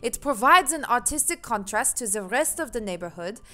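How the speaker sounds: lightly attempted German accent; a hint of shaky-footed German accent. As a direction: read it as a German gentleman. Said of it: "I can do German!".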